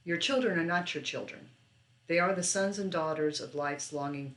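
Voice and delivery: measured poem reading with pauses between phrases. Acted. Librarian reading a favorite poem to teens, measured recital. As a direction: read it as verse, phrase by phrase.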